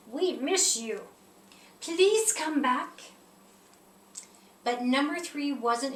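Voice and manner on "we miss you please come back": slow, pleading plea. Acted. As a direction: beg him gently to come home, drawn out. Other numbers plead for return.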